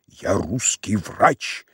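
медленно, чеканя каждое слово; весомо, по слогам; с расстановкой. Acted. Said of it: "сказал с расстановкой". (Самойленко чеканит с достоинством)

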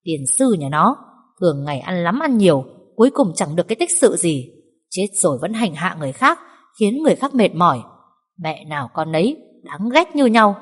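loud grumbling curse; irritated snapping. Acted. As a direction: spit out your irritation. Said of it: "bực bội gắt".

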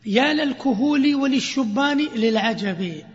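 slow chanted poetry line; recited verse. Shown as a demonstration. Teacher reciting the verse example to students, slowly. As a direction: intone it slowly and evenly.

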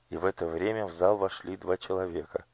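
usual speaking voice

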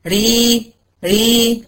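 ري with a light thin r and short i; thin ra demo. Shown as a demonstration. Teacher modelling a thin ري to her student. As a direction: model ري for the student, tongue tip tapping once. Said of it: "قولي ري".

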